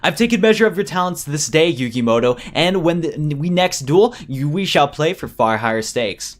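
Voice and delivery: villain issuing a formal challenge; lightly menacing, slowing on the final threat; theatrical villain. Acted.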